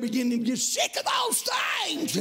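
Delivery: rhythmic chanted preaching, rising to shouts; fiery revival preaching. Acted. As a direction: whoop the sermon over the organ. Preaching at full force.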